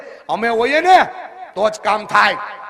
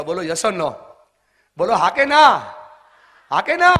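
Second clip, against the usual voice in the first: rousing demand; 3 semitones lower, 4 dB louder than usual. Real, not acted. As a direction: push the crowd to answer. Demanding an answer from the crowd.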